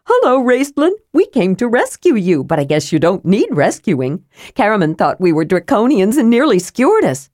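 high, bright rush of words; excited kender. A narrator's reading. Tasselhoff bounds in to Raistlin, high and excited. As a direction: bubble over, words tumbling out. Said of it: "his words tumbling over each other in his excitement".

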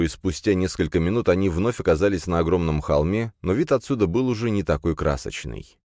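usual speaking voice

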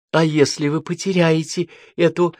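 high, slowed, pressing question; persistent, pointed questioning; insistent. A narrator's reading. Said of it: "настаивал Римма".

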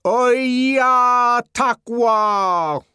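high, loud, very slow curse. Acted. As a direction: curse in Zuni at full volume. Savage cursing in Zuni.

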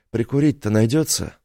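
mumbled around a cigarette; cigarette in mouth. Acted. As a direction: talk with a cigarette between the teeth. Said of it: "спросил он невнятно, уже зажав сигарету зубами".

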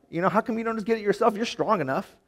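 high, fast exasperated whine; mock complaining. Imagined Rebecca telling the servant to fetch it himself, whiny. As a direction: push the chore back on him. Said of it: "She could have been like".

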